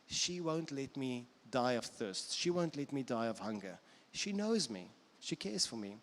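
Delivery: mildly soothing, unhurried; calm self-soothing. Acted. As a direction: gently reassure yourself, with pauses.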